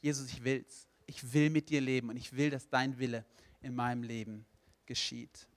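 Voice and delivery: low, deliberate prayer of commitment; praying to Jesus. Acted. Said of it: "dass du sagen kannst".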